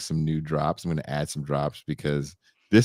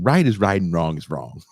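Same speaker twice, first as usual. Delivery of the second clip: quoting the preacher; 4 dB louder than usual. Retold or imitated. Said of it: "sound drop of that dude going".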